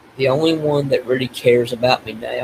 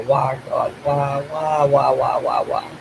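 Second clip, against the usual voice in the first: retold anguished wail, only mildly raised; drawn-out imploring cry, held back; tearful pleading; slower than usual. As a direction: plead as if retelling a crying fit. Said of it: "I'm just crying and going".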